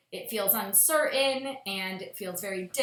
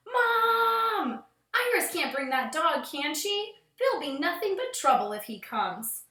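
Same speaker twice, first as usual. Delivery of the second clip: whiny sister yell; 6 semitones higher than usual. Acted. Big sister complaining to mom, high whiny sing-song. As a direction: whine it like a bratty big sister. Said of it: "my sister yelled, rolling her eyes".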